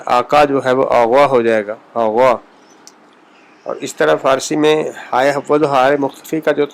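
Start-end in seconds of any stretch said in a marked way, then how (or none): 0.9-2.3 آغوا with the q as a throaty gh; Persian pronunciation. Shown as a demonstration. Teacher showing Persian qaf sounding like ghain. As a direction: turn آقا into آغوا. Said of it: "غین کی آواز دیتا ہے".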